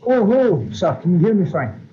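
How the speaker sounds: muffled, watery phone line; like talking from underwater. Real, not acted. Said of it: "You sound like you're completely underwater".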